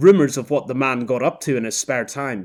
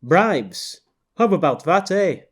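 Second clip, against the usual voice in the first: amused Canadian man, rising higher on eh; Canadian accent; 5 semitones higher, slower than usual. Acted. Canadian man reacting to the bribe rumour, amused Canadian accent. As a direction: let the Canadian eh lift high.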